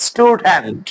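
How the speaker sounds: স্টুডেন্ট with a plain t after the s; unaspirated T after S. Shown as a demonstration. Teacher showing the exception, plain t in স্টুডেন্ট. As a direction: say স্টুডেন্ট with no puff on the first t. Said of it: "এখানে ঠ উচ্চারণ করা যাবে না".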